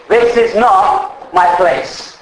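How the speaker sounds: drawn out, very slow; slow declaration. Shown as a demonstration. Preacher leading the congregation in a slow chant. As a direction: spell out each word as a creed. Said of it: "Let's say it again".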